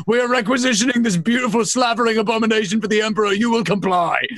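gruff barked parade orders. Acted. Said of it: "and I go".

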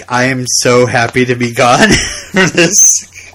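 slow, amused, relieved line with a laugh in it; relieved laughing quote. Retold or imitated. Imagined actress glad to leave the show, slow and laughing. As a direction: savour being gone, laughing. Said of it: "Michelle Williams was like".

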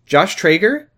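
high, bright phone hello; mock caller. Girl greets Josh over the phone, bright. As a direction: pick up the line in character. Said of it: "here's the conversation".

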